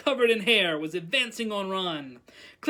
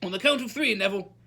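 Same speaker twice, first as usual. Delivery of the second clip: raised, commanding classroom voice; teacher's cue; 4 dB louder, faster than usual. A narrator's reading. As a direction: call out the countdown cue firmly. Teacher cueing pupil before spell.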